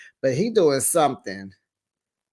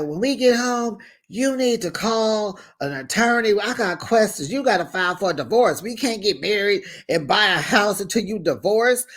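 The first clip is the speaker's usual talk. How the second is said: higher-pitched imitation of a boyfriend; retold ultimatum, pitched up; mock insistent demands; 5 semitones higher than usual. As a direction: lay down terms in a raised voice. Acts out his demands to her.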